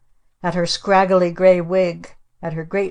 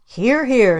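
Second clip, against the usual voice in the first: cheering approval; 6 semitones higher, 5 dB louder than usual. Acted. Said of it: "said my father".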